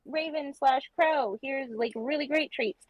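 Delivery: high, gushing praise for a pet bird; mock-delighted treat-giving voice; acted gushing praise. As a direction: make a fuss over a clever bird. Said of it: "and then you're like".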